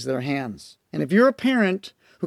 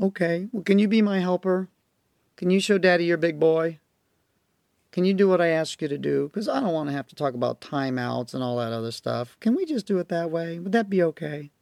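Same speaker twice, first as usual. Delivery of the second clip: put-on gently name the child's feelings; modeled calm talk. Shown as a demonstration. Dad modeling calm talk to a backtalking child. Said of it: "I model it for her".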